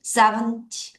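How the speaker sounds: seventy with strong SEVEN, weak ty; SEVEN-ty, light short ending; stress on the front. Shown as a demonstration. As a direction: hit SEVEN, let ty drop short. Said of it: "앞을 강하게".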